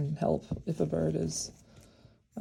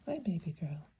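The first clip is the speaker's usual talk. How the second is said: soothing whisper; 5 dB quieter than usual. Real, not acted. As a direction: hush it gently to the bird. Whispering to the sparrow.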